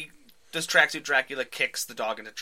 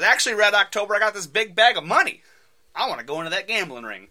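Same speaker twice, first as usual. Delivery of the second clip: put-on high, loud jokey Russian accent; mock Russian accent; 8 semitones higher, 9 dB louder than usual. Clint taunting the thugs, loud mock Russian accent. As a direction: Clint teasing them in a fake Russian accent.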